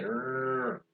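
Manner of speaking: "Rrr" held long so the throat vibrates; a long voiced "Rrr"; drawn-out R. Shown as a demonstration. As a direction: sustain "Rrr" and feel the buzz in the throat. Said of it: "la R".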